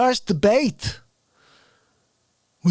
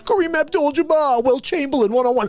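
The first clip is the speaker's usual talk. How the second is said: hammed-up outrage; 4 semitones higher than usual. Bragging about a cigar hook shot into coffee, hammed-up outrage. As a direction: overplay the wounded indignation, stretching key words high.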